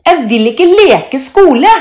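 put-on loud, high childish protest; defiant refusal. A narrator's reading. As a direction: refuse loudly like a cross child. Thor refuses to play along. (trassig, høy protest)

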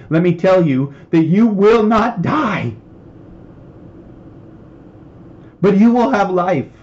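emotional preaching. Real, not acted. Preacher urging fearful believers toward life, emotional and impassioned. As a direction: preach it with rising fervour. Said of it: "I'm getting emotional".

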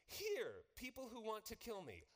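hammed-up fire-and-brimstone call to repent; preacher mimicking a smug warning to his enemies; mock zealous shout. Preacher voices what he might say.

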